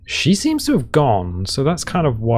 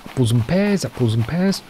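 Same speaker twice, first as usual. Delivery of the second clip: lightly put-on Cockney-style English accent; mock English accent warm-up. Shown as a demonstration. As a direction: try out a stock English accent phrase. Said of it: "An English accent".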